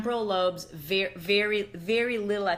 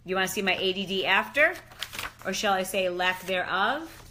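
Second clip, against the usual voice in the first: usual speaking voice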